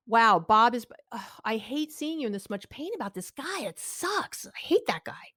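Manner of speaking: validating sympathy. Shown as a demonstration. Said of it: "I'm not doing that".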